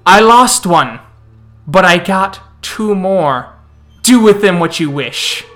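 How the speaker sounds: loud vampire taunt. Acted. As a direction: crow over the loss, loud and mocking.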